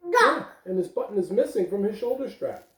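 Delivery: gentle read-aloud storytelling voice; lively picture-book reading; reading to children. Acted. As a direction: read it like story time for little ones. Teacher reads picture book aloud.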